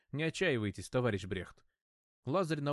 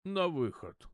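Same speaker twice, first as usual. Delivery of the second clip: booming call; 5 semitones higher, slower than usual. A narrator's reading. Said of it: "конвоир зычным голосом оповестил".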